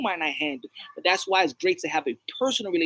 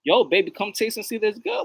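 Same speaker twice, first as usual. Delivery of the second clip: pickup line; 4 semitones higher than usual. Acted. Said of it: "say that to a chick".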